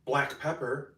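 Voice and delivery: bright, measured cooking-video narration; voiceover read. Acted. Creator reading steps for her cooking video, upbeat voiceover. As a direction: read each step for the recipe voiceover.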